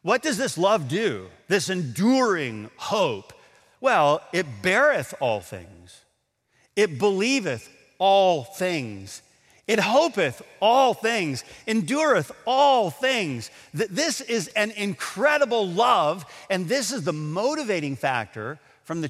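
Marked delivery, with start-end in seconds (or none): 3.8-13.5 slow, weighty scripture reading, each all hit and climbing; slow solemn recital. Acted. Preacher to the church, slowly reciting the love passage. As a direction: lean on every all, building upward. Reciting First Corinthians with emphasis.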